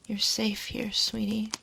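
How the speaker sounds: whispered comfort. Acted. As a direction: breathe it close to the ear. Comforting the listener.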